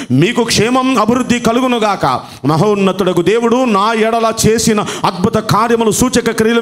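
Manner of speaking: steady, formal reading of the decree; a measured Bible reading voice; scripture reading. Acted. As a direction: read it out as a royal proclamation. Reads the king's decree.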